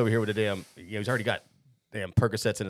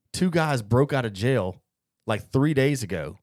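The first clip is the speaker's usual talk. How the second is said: emphatic cop retelling; 2 semitones higher, 5 dB louder than usual. Retold or imitated. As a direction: play an incredulous cop, rising in force. Cop explains the stakeout mix-up.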